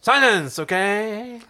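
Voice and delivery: high-pitched Muppet creature command; king prawn. Acted. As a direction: order silence in a cartoon prawn voice. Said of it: "go for the king prawn from Muppets in Space".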